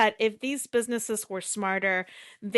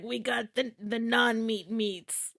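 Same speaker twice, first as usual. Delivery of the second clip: slow, softer mock ad read; commercial voiceover; 3 dB quieter, slower than usual. Quoting the new Arby's commercial, light voiceover imitation. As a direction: draw out the tagline like a voiceover. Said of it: "I wanna do that voiceover".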